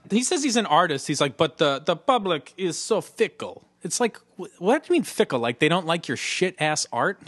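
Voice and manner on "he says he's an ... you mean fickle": high incredulous ribbing; mock outrage. Real, not acted. Host mocking the artist's excuse, incredulous. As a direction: scoff in disbelief. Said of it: "mocking the artist".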